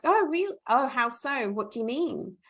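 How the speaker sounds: high surprised "oh", easing down into the question; gently curious. Acted. Asking the coworker what that comment meant, curious and not defensive. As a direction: ask tactfully, with innocent curiosity. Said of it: "just curiosity".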